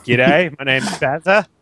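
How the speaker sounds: badly faked Aussie greeting; fake Australian accent. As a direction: pretend to be Australian, unconvincingly. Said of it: "pretend to be Australian".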